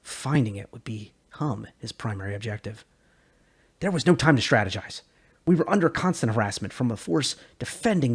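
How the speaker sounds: steady, measured audiobook read; lore narration. A narrator's reading. Host reading a game lore chapter to viewers, steady narration. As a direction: tell the history like a documentary narrator.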